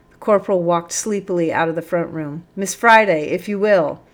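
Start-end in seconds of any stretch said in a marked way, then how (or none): 2.5-4.0 lifted voice, calling over. A narrator's reading. Sergeant summoning Miss Friday, calling out. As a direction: summon her with a polite call. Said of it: "called the sergeant then".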